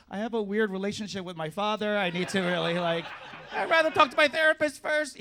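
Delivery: rising high, fast, giggling through it; flustered laughing excuse. Retold or imitated. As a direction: babble your way out, laughing. Flustered reply in bed.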